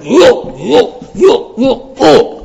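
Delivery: lightly voiced high eager dog. Preacher imitating dog returning to vomit, eager squeaky voice. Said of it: "You see the dog there's going".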